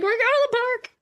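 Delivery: high, strained singsong; mother calling to impatient kids; exasperated reassurance. Retold or imitated. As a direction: sing it out to calm the nagging kids. Mom answering nagging kids.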